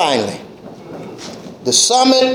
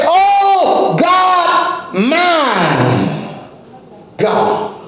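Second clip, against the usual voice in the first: crying plea; 4 semitones higher, much slower than usual. Acted. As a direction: wail it then fade to a breath. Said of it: "He says".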